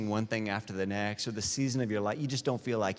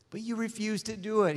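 impassioned; 11 semitones higher than usual. Real, not acted. Repeated scripture line, high.

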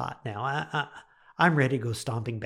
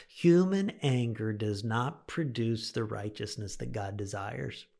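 slow emphatic repeat; slower than usual. Shown as a demonstration. Preacher repeats the key verse to his listeners, slow and emphatic. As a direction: let the repeated verse sink in slowly.

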